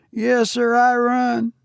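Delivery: put-on a nervous young servant answering his master; young Cockney servant. Thomas admits running.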